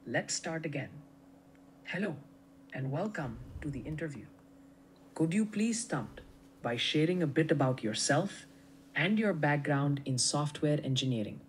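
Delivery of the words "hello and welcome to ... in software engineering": put-on English with an Indian accent. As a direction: interviewer speaking with an Indian accent. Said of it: "keep the accent the entire way".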